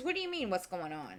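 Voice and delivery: mock sarcastic, needling reply. Retelling her son's question on the phone: imitating a sarcastic tone. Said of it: "he gets sarcastic with me".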